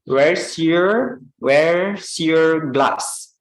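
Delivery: "where's your" linked slowly; connected speech demo. Shown as a demonstration.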